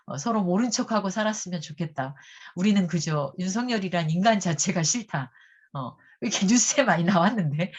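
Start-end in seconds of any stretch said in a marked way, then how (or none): 0.2-5.3 lightly imitated North Korean speech; a hint of North Korean statement tone; North Korean accent. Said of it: "그 북한 고유한 말투로".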